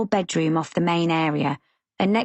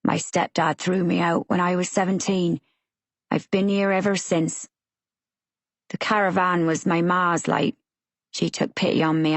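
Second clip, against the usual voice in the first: put-on West Country accent. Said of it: "His accent is thick West Country".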